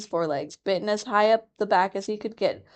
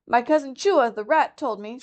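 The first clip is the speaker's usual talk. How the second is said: timid muskrat; 6 semitones higher than usual. Acted. Chuchundra begins nervously.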